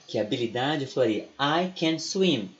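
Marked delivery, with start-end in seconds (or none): 1.4-2.5 slow, with can and swim each pushed out; stress on can and swim. Shown as a demonstration. Teacher shows which words in I can swim get stress. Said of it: "eu ia grifar o can e o swim".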